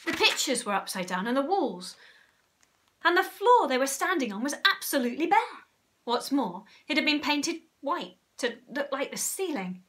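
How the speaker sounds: put-on emphatic reading aloud to children; animated story narration. A narrator's reading. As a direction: build the list with mounting amazement.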